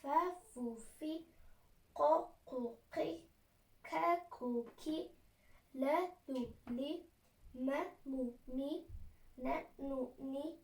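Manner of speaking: measured rote reading of Arabic syllables; letter-drill recitation. Real, not acted. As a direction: sound out each vowelled letter in turn. Reads all letters with vowels.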